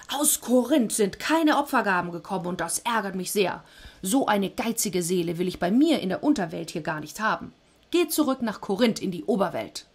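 a mildly hammed-up thundering god.

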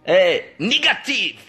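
slow mock German; German accent. Shown as a demonstration. Trying German on request, slow put-on accent. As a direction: attempt a drawn-out German accent.

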